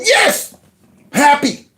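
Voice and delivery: high gleeful squeal; mock cheer, pitched high. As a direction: squeal it like a gloating fan. Mock cheer he would never do.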